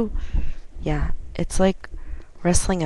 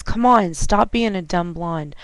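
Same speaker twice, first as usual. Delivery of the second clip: louder, impatient coworker voice; exasperated scolding; 6 dB louder than usual. Retold or imitated. Coworker scolding the new driver over parking lights, exasperated. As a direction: scold her like she's being slow on purpose.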